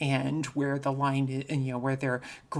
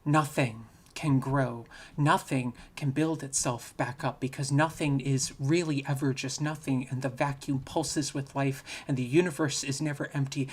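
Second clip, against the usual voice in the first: poem reading. Acted. Speaker reading a generated poem to the audience, measured poem reading. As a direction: read it like a poem at a reading, letting lines breathe.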